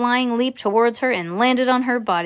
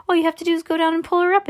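fast; 7 semitones higher, much faster than usual. A narrator's reading. Wonka rattles on.

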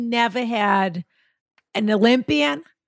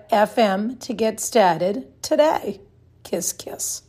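podcast ad read; 3 semitones lower than usual. Acted. Host reads a podcast ad.

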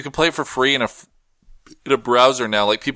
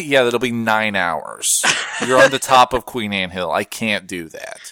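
put-on Seattleite accent; 3 semitones lower than usual. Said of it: "Seattleite accent".

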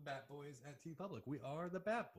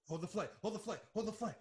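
calling out, rising louder; shouting; 7 semitones higher, 6 dB louder, faster than usual. Acted. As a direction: yell to stop the plane. Running late, calling to gate.

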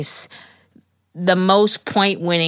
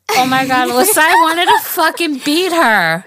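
fired up; 8 semitones higher, 4 dB louder than usual. Real, not acted. Reliving fury at rival player.

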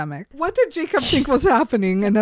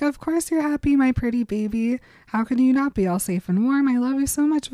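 higher-pitched mock baby talk; imitated cooing; 5 semitones higher than usual. Bella telling her unborn baby she loves it, cooing. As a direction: coo lightly as a doting mother.

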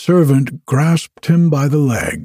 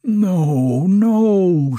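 mild scream; 7 semitones higher than usual. A narrator's reading. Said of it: "screamed Loki".

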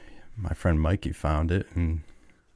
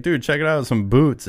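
imitated excited friend; 7 semitones higher, 3 dB louder than usual. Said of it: "he's like".

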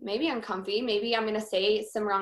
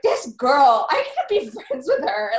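laughing; 4 semitones higher, 7 dB louder than usual. Retold or imitated. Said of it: "And I was like".

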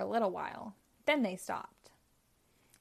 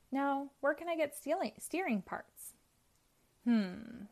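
higher, puzzled villain voice; scheming villain; 5 semitones higher than usual. A narrator's reading. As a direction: wonder aloud like a scheming villain. Robotnik muses to himself.

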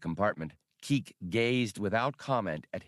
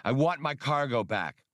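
a mild narrated outburst, pitched higher; exploding in anger; 6 semitones higher than usual. A narrator's reading. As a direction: Han snaps at the inspector, understated. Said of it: "Han exploded".

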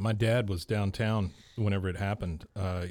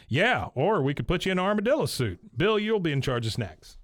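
Hank; 6 semitones higher than usual. Retold or imitated. Acting out Hank assigning roles.

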